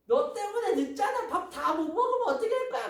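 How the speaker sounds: very high, loud sibling tantrum; hammed-up furious child telling someone off; angry scolding. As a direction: scold in a high-pitched, worked-up voice. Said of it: "막 이렇게 화낼 건가요?".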